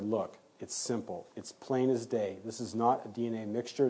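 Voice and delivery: softly spoken, measured retold explanation; calm insistence. Retells calmly insisting to the DA.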